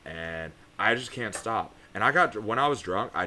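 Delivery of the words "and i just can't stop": put-on slow, plain Connecticut accent; slow down, no Southern twang; real Connecticut accent. Admitting the act to strangers, real Connecticut accent. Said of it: "This is my real accent".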